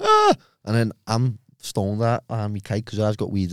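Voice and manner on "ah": high, loud frightened gasp of "ah"; high panicked "ah". Retold or imitated. Staring at his mate in the story, a high frightened yelp. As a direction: let out a startled high yelp. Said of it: "and I'm going".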